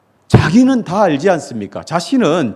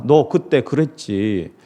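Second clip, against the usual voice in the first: mock accusing; 3 semitones lower, slower than usual. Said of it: "따지는 분이 아닙니다".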